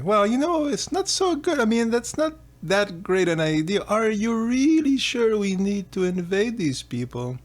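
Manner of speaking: a fretful vizier talking the king down; worried ministers. Acted. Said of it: "his ministers, whatever, say".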